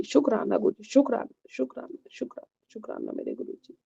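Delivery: measured chant fading to a near-silent close; devotional mantra recitation. Real, not acted. Devotee closing her satsang to Guru ji, mantra recitation fading away. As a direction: recite the mantra reverently, letting the voice die away.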